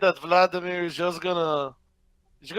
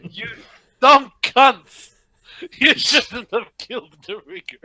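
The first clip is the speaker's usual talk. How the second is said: booming dragon from the sky; loud, rumbling dragon voice; 6 semitones higher, 7 dB louder than usual. Acted. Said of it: "The voice of a dragon says".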